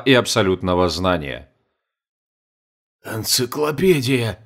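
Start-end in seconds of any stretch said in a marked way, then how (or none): 3.0-4.4 slow, soft breathless gasp; panting. Acted. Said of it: "задыхаясь".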